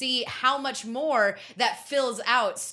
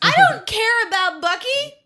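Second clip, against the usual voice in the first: much higher and louder, slow, dragged-out dismissal; mock declaration; 13 semitones higher, 10 dB louder than usual. Host bluntly dismisses Bucky to his co-hosts, hammed-up loud proclamation.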